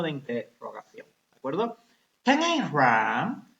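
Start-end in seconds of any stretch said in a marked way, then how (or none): 2.2-3.5 slow model question. Shown as a demonstration. Teacher models question slowly.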